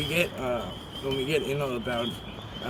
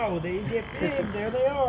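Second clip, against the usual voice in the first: excited; 9 semitones higher than usual. Real, not acted. Excited at big fish.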